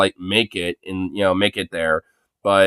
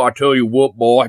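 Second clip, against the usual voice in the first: put-on light southern accent, a drawled "I tell you what"; a hint of southern good old boy. Joking to a friend in a light southern accent. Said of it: "type of voice".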